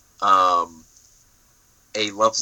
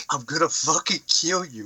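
mock deadpan threat; 5 semitones higher than usual. Retold threat to villain.

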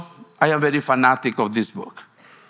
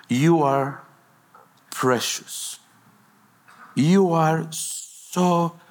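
tender; slower than usual. Real, not acted. Pastor telling the congregation they are precious, slow and tender. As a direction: lay each word down gently, like a blessing.

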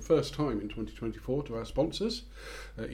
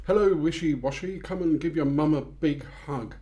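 lightly voiced panto dame; sing-song pantomime dame greeting; 3 semitones higher than usual. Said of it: "I was Widow Twanky".

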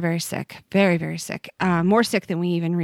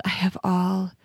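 prayed on an out-breath; 2 semitones lower than usual. Shown as a demonstration. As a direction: let it go as you breathe out. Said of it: "And I exhaled".

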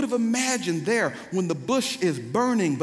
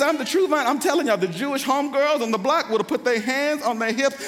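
higher, heated sermon storytelling; animated preaching; 5 semitones higher, 4 dB louder than usual. Real, not acted. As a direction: play up the shocked crowd for the congregation.

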